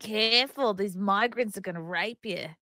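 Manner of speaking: put-on botched British accent that sounds Australian; attempted British accent slipping Australian. Co-host copying British lads, accent slips into Australian. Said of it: "No, that's Australian".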